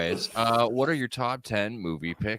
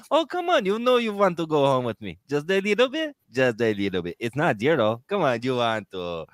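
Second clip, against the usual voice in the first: flirty haggling. Retold or imitated. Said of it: "you haggle like".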